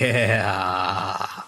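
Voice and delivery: low, soft gloating laugh; pleased laugh at one's own plan; scheming laugh. Acted. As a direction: let out a long schemer's chuckle. Schemer chuckles over his plan.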